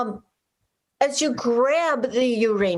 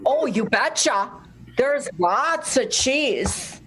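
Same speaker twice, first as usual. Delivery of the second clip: put-on Minnesotan accent; slower than usual. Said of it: "some Minnesotan".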